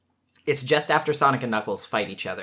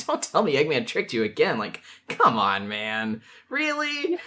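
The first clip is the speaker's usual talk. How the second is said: casual, jokey. Retold or imitated. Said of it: "kind of casual".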